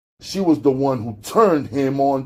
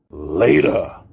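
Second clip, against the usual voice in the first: snapping; 5 semitones lower than usual. Acted. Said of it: "he snapped".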